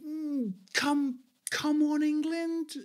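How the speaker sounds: high, soft, slow and grudging "come on, England"; mock support, drawn out and unconvinced; half-hearted cheer. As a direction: force out a reluctant cheer for the other side. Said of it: "I'm like".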